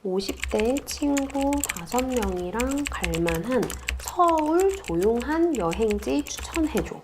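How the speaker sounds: reading a chatbot prompt aloud, word by word; slow read-out query. Shown as a demonstration. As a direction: spell out the request slowly for the screen. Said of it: "구체적인 질문을 한번 추가해 볼게요".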